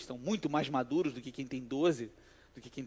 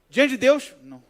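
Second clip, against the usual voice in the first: loud, high mock of the oath; 8 semitones higher, 13 dB louder than usual. Mocking the oath aloud. (zombaria alta do juramento)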